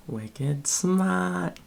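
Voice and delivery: put-on playful Boston accent, r dropped in smart. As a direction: toss it off like a Bostonian. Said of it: "every time I talk in a Boston accent".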